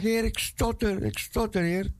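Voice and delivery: high, begging plea; pleading Moses. Retold or imitated. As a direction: beg to be let off the hook. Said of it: "Hij zegt".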